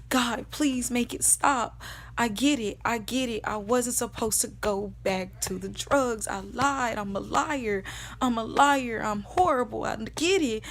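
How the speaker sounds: insistent, repeated pleas to God; retold desperate begging, pouring out in confession; begging and pleading. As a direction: plead with God to make it stop. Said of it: "I'm begging him and I'm pleading with him".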